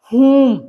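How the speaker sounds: "Whom" as "hoom", no W sound; silent W. Shown as a demonstration. Teacher reads out an example word, "Whom" with silent W. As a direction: say "Whom" starting on H. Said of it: "डब्ल्यू silent है".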